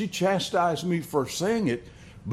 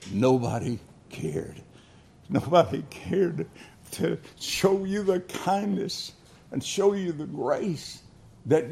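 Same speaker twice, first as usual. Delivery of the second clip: tender preaching appeal; 3 semitones lower, 4 dB quieter than usual. Acted. Preacher to congregation about unloved sinners, softly pleading. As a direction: draw the listeners in gently.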